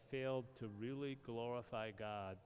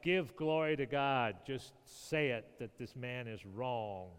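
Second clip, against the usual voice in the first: louder, pressing command; louder demand; 5 dB louder than usual. Retold or imitated. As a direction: Pharisees pressing the blind man. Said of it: "They're like".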